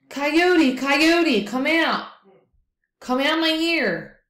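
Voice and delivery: high, loud pleading wail; monster begging. Acted. Monster begs Coyote to leave through his nose, high pleading wail. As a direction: beg desperately, voice strained high. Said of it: "kept begging Coyote".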